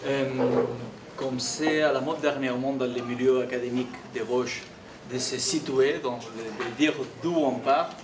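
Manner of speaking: Catalan-accented French; foreign accent in french. Real, not acted. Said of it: "je m'excuse si mon français n'est pas très clair".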